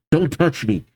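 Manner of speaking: muffled, hurt accusation. Acted. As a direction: speak as if through a gag. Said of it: "Still in her weird, muffled voice".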